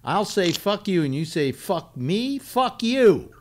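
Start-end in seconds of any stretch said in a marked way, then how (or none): 0.5-1.0 demonstrated New York curse, pitched up; New York accent. Shown as a demonstration. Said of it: "That's New York". 1.5-3.3 punchy, high-pitched New York comeback; New York accent. Shown as a demonstration. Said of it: "That's New York".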